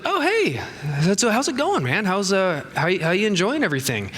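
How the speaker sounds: high, chirpy chatter speeding up; cheerfully pepper him with quick questions; upbeat small talk. Retold or imitated. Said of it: "So I was like".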